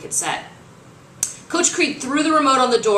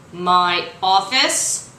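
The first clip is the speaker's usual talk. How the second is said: very slow, louder, disbelieving growl; mild growl; 5 dB louder, much slower than usual. Acted. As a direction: chew each word in outrage. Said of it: "Father Uberti growled".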